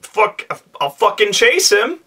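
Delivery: high, hyped snarl of a keen player; eager player. Retold or imitated. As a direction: blurt it out high and itching to fight.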